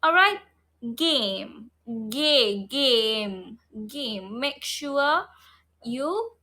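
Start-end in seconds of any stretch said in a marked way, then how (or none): 1.0-4.4 "game" repeated low with a hard G; low, careful model of "game"; correct hard G. Shown as a demonstration. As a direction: break off "Ga-", then give the whole "game". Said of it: "pronounce the G correctly".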